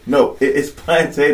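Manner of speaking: "plantain" said plan-tay; the customer refusing to budge on "plantain"; customer insisting. Retold or imitated. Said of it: "he was like".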